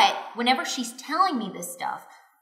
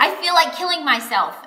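higher, louder, rushed retold outburst; retold screaming; 6 semitones higher, 5 dB louder, faster than usual. Wife confessing to husband in a retold fight, raised voice. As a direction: re-enact blurting it out mid-fight. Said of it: "I'm screaming back at him".

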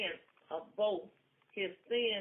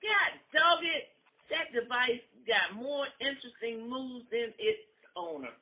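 angry thought; 3 semitones higher, 4 dB louder than usual. Acted. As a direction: grumble in anger. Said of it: "thought to herself in anger".

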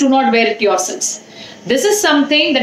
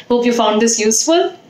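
normal talking voice

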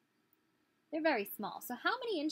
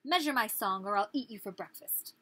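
threatening nightingale; 4 dB louder than usual. Acted. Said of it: "said the nightingale".

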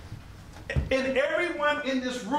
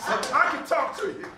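higher, chuckling through the words; laughing; 6 semitones higher than usual. Real, not acted. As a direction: tell it while you can't stop laughing. Retelling embarrassing school memory.

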